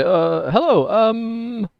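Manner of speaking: high, startled traveler voice; shocked. Acted. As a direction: sound taken aback and unsure. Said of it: "almost shocked voice".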